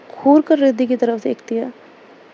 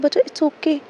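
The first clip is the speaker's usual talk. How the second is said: lovingly comforting. Retold or imitated. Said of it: "बहुत ज़्यादा प्यार से बोलती है".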